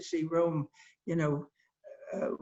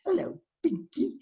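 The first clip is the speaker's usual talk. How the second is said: high put-on greeting; 14 semitones higher than usual. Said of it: "I had trouble calling him".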